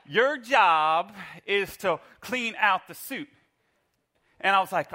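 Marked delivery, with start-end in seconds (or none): 0.1-3.3 wife's voice, laughing. Retold or imitated. Wife handing over suit.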